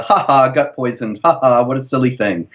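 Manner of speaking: understated mock laughter, ha ha. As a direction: imitate scoffers with a dry fake laugh. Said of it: "full of mockery".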